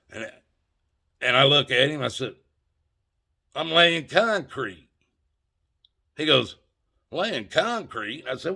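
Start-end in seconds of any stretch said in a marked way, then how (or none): 3.5-4.9 slow, dry sarcastic answer with a falling end; deadpan sarcasm. Retold or imitated. To the cop, sarcastically answering what he's doing, slow deadpan. 7.1-8.2 slow, puzzled echo rising at the end; incredulous repeat. Retold or imitated. Cop repeating the answer back, slow disbelieving question.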